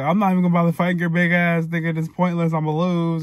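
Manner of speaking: quick, mildly worked-up replay of an angry text; going in on him. Retold or imitated. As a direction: fire it off as a mock tirade. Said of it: "I just was going in".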